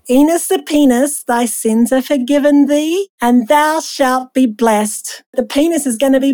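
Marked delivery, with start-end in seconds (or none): 0.1-5.2 slow, drawn-out scripture reading. Acted. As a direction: read it out slowly like solemn scripture.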